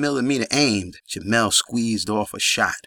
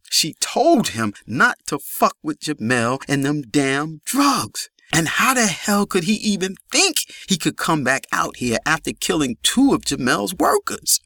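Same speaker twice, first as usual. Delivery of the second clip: anguished scolding; 6 semitones higher than usual. A narrator's reading. Grieving woman scolds dead man.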